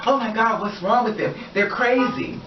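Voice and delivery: high, whiny fake outrage; mock victim whine. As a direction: play the poor little victim. Mocking hypocrite playing victim.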